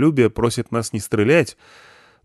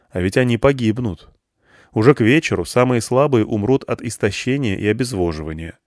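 ordinary delivery

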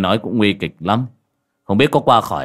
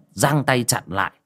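plain reading voice

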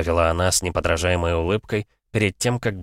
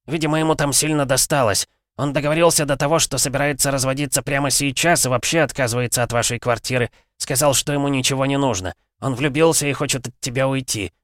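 father-in-law voice; 8 semitones higher than usual. A narrator's reading. Zaitsev tells daughter news.

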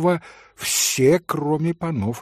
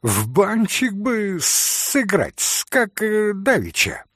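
giggling; 8 semitones higher than usual. Acted. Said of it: "хихикнул вдруг Максимов".

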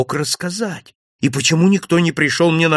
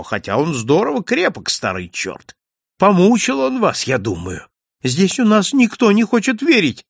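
higher, lively gossiping landlord; chatty innkeeper; 6 semitones higher than usual. Acted. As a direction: tell it like juicy village news. Innkeeper continues. (болтливый хозяин с жаром пересказывает новости)

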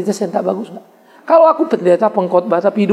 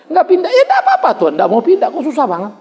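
laughing mock prayer; 7 semitones higher than usual.

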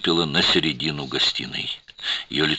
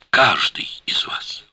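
hushed, unvoiced whisper; lowered voice; 8 semitones higher, slower than usual. A narrator's reading. Shana accusing the room, in a hushed whisper. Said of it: "понизив голос".

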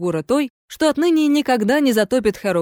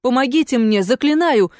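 desperate plea; 3 semitones higher than usual. Acted. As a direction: beg for rescue in panic. Ghost begs for help.

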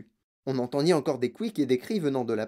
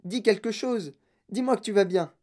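higher-pitched anxious begging; worried, raised-pitch appeal; pleading cry; 5 semitones higher than usual. Acted. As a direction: plead with a son, pitch lifted. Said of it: "cria madame T V".

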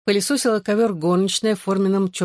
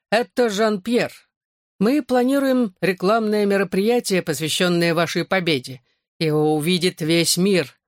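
put-on French accent. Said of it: "интонацию заносчивого француза".

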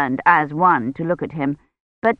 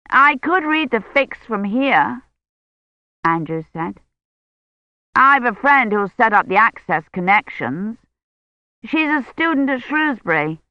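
put-on a lighter, higher young man on the phone; higher nervous young man; Andrews' voice; 6 semitones higher than usual. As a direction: play the nervous young tech, a bit higher.

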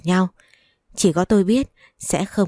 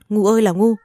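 exasperated scolding wail; 3 semitones higher, 4 dB louder than usual. Acted. Mother wails at her grown son for his foolishness. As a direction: wail "ngu" at your foolish son in despair.

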